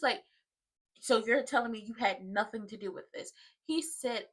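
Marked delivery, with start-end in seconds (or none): 1.0-3.3 low-key sceptical question; retold questioning. Woman questioning Joey about his part, imitated softly. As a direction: imitate her checking his denial, softly.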